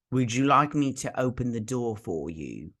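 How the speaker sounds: put-on a rough go at Troi's accent; loose, half-successful Troi accent; attempted Deanna Troi accent. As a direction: lightly imitate Troi's accent, not very well. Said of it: "I'm not doing her accent very well".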